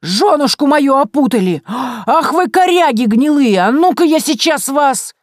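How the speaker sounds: loud furious bellow of a forest spirit; Leshy roaring in fury; enraged roar. A narrator's reading. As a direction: roar threats at the intruders. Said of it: "заорал".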